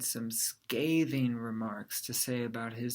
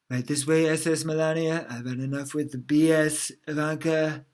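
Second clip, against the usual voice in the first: louder, more performed delivery; put-on retake; 4 dB louder than usual. Shown as a demonstration. Retrying the joke as a father, louder put-on delivery. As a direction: sell it as a character line. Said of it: "Maybe I should do it with the".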